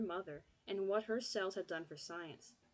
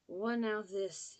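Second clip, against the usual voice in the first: put-on mumbled Southern accent; 4 dB louder, slower than usual. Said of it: "he mumbled in a deep Southern accent".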